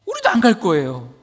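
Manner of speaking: high, urgent plea to God; Moses pleading. Acted. Moses begs God to go with them, high and urgent. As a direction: beg like Moses refusing to go alone. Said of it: "모세는 다시 하나님께 호소합니다".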